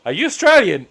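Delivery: high, loud imitated question; curious American stranger. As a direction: mimic an excited stranger asking. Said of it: "someone would turn to me and go".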